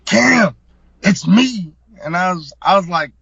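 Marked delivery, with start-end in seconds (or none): 0.0-1.7 louder, higher, desperate shout of a name; mock frantic yell; retold yell. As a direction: yell it like he's pleading to be seen. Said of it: "he yells at me".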